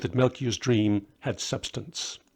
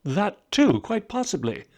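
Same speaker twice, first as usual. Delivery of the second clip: hesitant; 9 semitones higher than usual. Acted. Melchior squirming, evasive.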